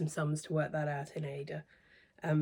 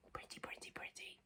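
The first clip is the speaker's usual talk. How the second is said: breathless whispered pretty, pretty, pretty; barely voiced, savouring each word; hushed, dreamy admiration; 21 dB quieter than usual. Real, not acted.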